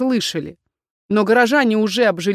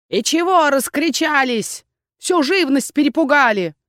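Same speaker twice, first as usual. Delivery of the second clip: scolding crone; 6 semitones higher than usual. A narrator's reading. Old crone scolding noisy visitors, higher. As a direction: nag like an old hag.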